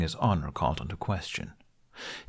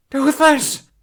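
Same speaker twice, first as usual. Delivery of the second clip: high, much louder cry of the name; anguished scream; 8 dB louder than usual. Acted. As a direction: scream as the axe rises. Axe about to fall.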